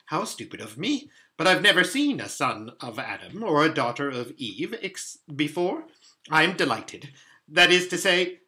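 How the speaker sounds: a hint of an apologetic, delighted faun; flustered fawn catching himself; lightly played faun, apologetic then pleased; lightly voiced flustered fawn.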